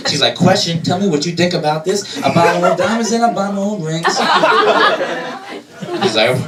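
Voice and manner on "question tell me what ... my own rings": sassy. Retold or imitated. Mary as sassy modern woman.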